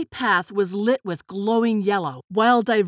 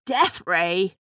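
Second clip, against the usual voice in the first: aghast, questioning echo; gasping shock; 2 semitones lower than usual. A narrator's reading. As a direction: repeat it as a stunned question. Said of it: "Grandpa gasped".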